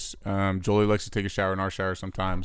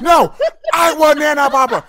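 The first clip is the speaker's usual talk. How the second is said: put-on high, loud whiny kid voice, laughing; mocking tantrum back; 11 dB louder than usual. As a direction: yell the tantrum back playfully. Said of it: "I start mocking her".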